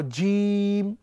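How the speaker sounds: jim said slow and firm; firm strong Arabic jim. Shown as a demonstration. Teacher showing students a firm Arabic letter. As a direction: teach the letter জিম with a solid sound. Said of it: "শক্ত এবং মজবুত আওয়াজে".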